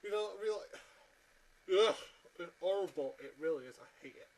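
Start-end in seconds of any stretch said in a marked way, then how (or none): 1.9-1.9 loud groan of disgust; exasperated groan. Real, not acted. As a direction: groan out your loathing. Disgusted groan at a hated show.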